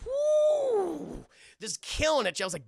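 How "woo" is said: high, excited cheer; excited whoop. Retold or imitated. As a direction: whoop it out loud. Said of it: "Even the headmaster's like".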